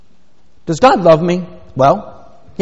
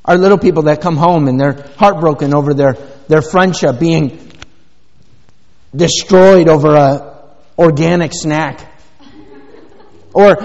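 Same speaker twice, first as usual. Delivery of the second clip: ordinary talk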